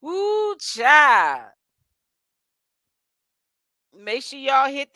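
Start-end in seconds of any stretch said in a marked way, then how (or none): 0.0-1.5 excited whoop. Real, not acted. Excited exclamation.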